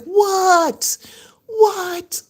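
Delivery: high unvoiced whisper of disbelief; stunned whisper. Hearing Ken said yes, a high stunned whisper. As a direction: gasp it out, not believing your ears. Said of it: "I was like".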